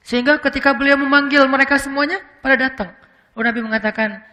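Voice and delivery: usual speaking voice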